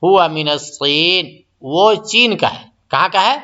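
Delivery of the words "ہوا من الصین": slow model answer. Shown as a demonstration. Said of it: "محمد جواب دیتا ہے".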